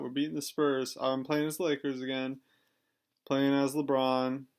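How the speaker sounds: chewing ice while talking; talking around a mouthful of ice. Real, not acted. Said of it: "sorry, I'm chewing ice".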